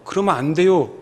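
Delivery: a touch of sorry pleading; regretful plea. Retold or imitated. Peter sorry about Jesus' death, mild regretful plea. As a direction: mildly lament that he must die. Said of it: "예수님의 죽음이 막 아쉬워서".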